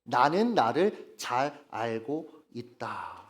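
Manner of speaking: slow, measured, low declaration; self-assured statement. Acted. Deluded person tells himself he knows himself, slowly assured. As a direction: set each word down slowly as settled fact. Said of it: "착각합니다".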